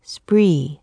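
breathy hushed whisper of the word. A narrator's reading. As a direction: breathe it out, barely voiced. Chapter opens with raven word.

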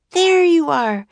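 put-on high, loud girl's call; calling out on finding him. A narrator's reading. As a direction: call it out as you find him. Girl finds brother in haze.

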